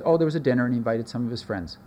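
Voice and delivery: quick, casual brush-off; offhand downplaying. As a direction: toss it off like it's nothing. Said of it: "Matthew just says".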